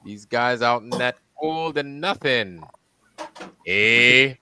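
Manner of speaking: put-on reading a viewer comment in a light Canadian accent, leaning on each "eh"; a mild mock Canadian lilt, with every "eh" tagged on as a question. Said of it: "he sounds like a Canadian".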